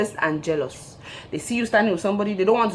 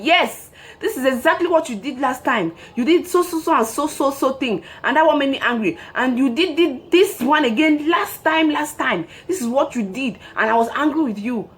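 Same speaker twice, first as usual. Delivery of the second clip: put-on higher, accusing recital of old grievances; mock scorekeeping partner; 6 semitones higher than usual. Partner reciting old faults, higher mock accusing voice. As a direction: list past wrongs like a nagging partner. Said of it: "partner keeping score quoted".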